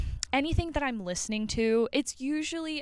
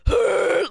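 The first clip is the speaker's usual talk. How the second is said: sharp inhale gasp; 2 semitones higher, 12 dB louder than usual. Shown as a demonstration. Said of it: "a shouting scream".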